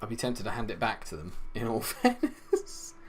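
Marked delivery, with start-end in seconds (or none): 1.5-2.9 laughing. Real, not acted. Laughs at own bad team.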